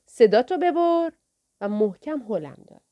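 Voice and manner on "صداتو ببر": high, loud, slow bark; a pimp snapping at the boy to shut up; angry order. Acted. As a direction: shut him up with menace. Thug silences crying boy.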